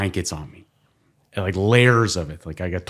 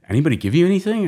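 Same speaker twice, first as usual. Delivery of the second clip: doctor voice; 11 semitones higher, 5 dB louder, much faster than usual. Retold or imitated. Voicing the doctor.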